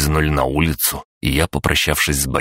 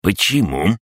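snappy clicking crab; 5 semitones higher than usual. Acted. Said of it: "изумился крабогном".

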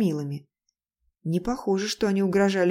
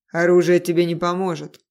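dark voice behind you; 6 dB louder than usual. Acted. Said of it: "раздался голос Тейна за спиной".

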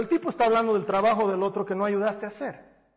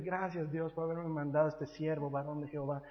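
hushed, reverent thanks to God, much softer; mock pious thanks; 4 semitones lower, 9 dB quieter than usual. Pastor playing a relieved church member, hushed mock prayer. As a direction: breathe it like a grateful prayer.

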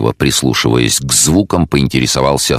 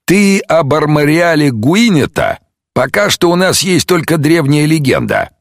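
higher, lighter detective. Acted. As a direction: voice the sceptical detective. The speaker voiced.

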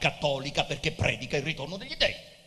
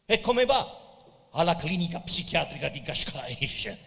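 delighted; 10 semitones higher, 5 dB louder than usual. Acted. Pessoa greets Mora delightedly.

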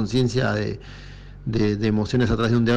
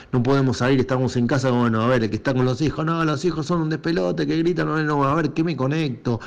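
higher-pitched worried rambling; mock frazzled; 3 semitones higher than usual. Acting out someone stuck at home with kids, mock frazzled. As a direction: voice the frazzled inner chatter, rising in pitch. Acts out stressed parent at home.

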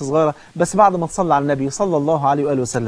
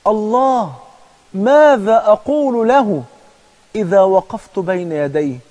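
fading distant voice; 5 semitones higher, much slower than usual. Acted. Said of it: "بصوت بقى جاي من بعيد".

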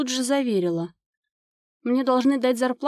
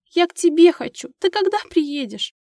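a loud, high cry for her mother; desperate shout; 8 semitones higher, 6 dB louder than usual. A narrator's reading. Girl crying out to her mother on the phone, loud and desperate. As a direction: call out with all your longing. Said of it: "отчаянно закричала она".

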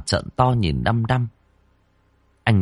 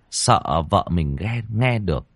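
ordinary delivery, nothing marked

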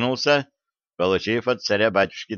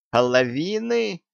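high, slow, aghast question; shocked echo; 9 semitones higher, slower than usual. A narrator's reading. Treasurer aghast at the gossip's demand for half. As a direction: gasp the word in disbelief. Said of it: "выпучил глаза".

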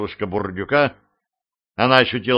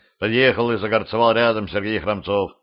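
ordinary delivery

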